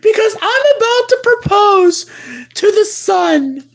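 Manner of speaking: hammed-up teary rush, fast; fake-sob it out quickly; mock crying. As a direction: melodramatic pretend tears. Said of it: "I'm literally crying right now".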